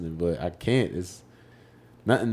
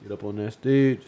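viral video imitation. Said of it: "that's my favorite video".

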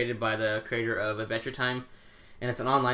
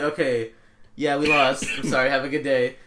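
mock polite; 2 semitones higher, 6 dB louder than usual. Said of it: "I'll be like".

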